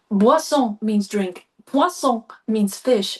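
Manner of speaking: slow, careful "Boisson" and "Poisson" in French; careful French words. Retold or imitated. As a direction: spell out "Boisson" and "Poisson" slowly, French style. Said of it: "And I remember going".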